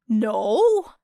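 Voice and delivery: a loud, quick defensive no. A narrator's reading. Sero defending his fear to Era, loud and defensive. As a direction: push back fast. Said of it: "said Sero defensively".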